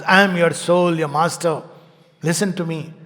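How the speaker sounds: a hint of a neta booming at a rally; lightly hammed-up leader announcing himself; mock politician's proclamation. Soul mocked as a neta shouting from big roads, mild mock proclamation. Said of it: "like the voice of the netas".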